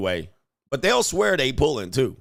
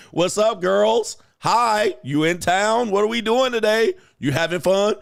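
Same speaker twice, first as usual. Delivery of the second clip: higher, louder mock party-guy greeting; hyped-up flirty bar guy; 6 semitones higher, 4 dB louder than usual.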